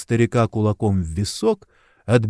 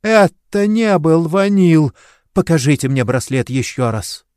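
вопль ужаса; 6 semitones higher, 4 dB louder than usual. A narrator's reading. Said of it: "завопила от ужаса".

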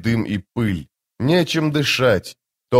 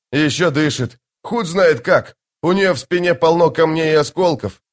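rising, higher urgent cry; urgent report; 5 semitones higher than usual. Acted. Sergeant reports the wounded woman still breathes, urgently. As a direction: blurt it out in alarm.

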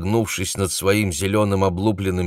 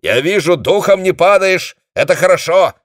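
high, loud approving call; shouting; 11 semitones higher, 7 dB louder than usual. A narrator's reading. Dezhnev shouts approval to his commander. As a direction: shout praise down the line. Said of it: "крикнул он".

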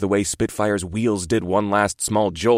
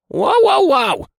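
high startled "whoa, whoa" shout; hasty alarmed shout; 6 dB louder, much slower than usual. Acted. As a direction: throw up the alarm, fast and high. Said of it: "he said hastily".

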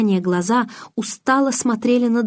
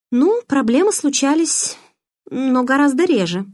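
reluctant; 7 semitones higher, 4 dB louder than usual. A narrator's reading. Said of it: "неохотно промолвила я".

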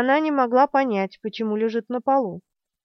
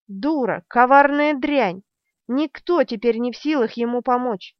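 furious; 2 semitones higher, 4 dB louder than usual. Acted. Zedd's thought in fury.

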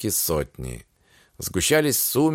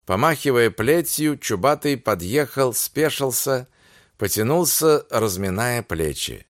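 ordinary delivery, nothing marked

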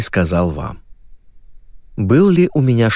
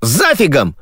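mild angry retort; 6 semitones higher than usual. Acted. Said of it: "рассердился ведущий".

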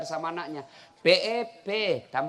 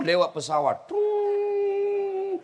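usual speaking voice

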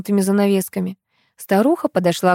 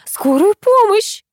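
higher, louder, slow cry for help; mother calling for an ambulance, desperate shout; 5 dB louder, slower than usual. A narrator's reading. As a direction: scream for an ambulance. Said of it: "закричала Нина Анатольевна".

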